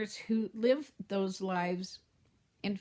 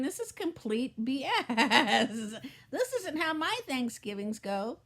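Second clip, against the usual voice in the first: scoffing laugh. Retold or imitated. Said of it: "watching these commercials going".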